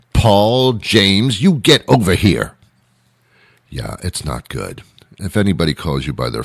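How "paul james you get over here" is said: parent calling the full name, a bit louder; playfully stern summons with the middle name; calling the kid in trouble; mild mock scolding. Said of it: "never used unless you're in trouble".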